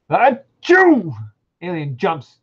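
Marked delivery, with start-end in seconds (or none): 0.1-1.1 high hammed-up sneeze; mock sneeze. Reading aloud, human character sneezes, hammed-up. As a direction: fake a loud sneeze.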